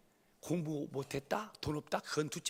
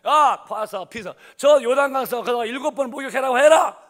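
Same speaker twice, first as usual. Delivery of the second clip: louder, curt orders; offhand command; 7 semitones higher, 16 dB louder than usual. Retold or imitated. Elisha tells the servant to send the minister off. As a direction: brush him off through the servant.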